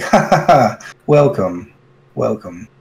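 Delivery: a statue repeating its greeting with a laugh; a booming laugh, then a double welcome. Acted. Statue greeting the party with a laugh. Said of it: "he kinda repeats, what was said earlier".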